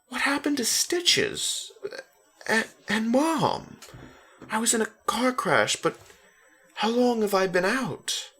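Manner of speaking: rushing out frightened questions; scared boy questioning his dad; panicked questions. A narrator's reading.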